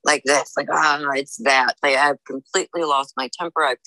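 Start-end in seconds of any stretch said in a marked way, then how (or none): 0.0-1.8 heavy rage breathing. Shown as a demonstration. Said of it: "My breathing is like this".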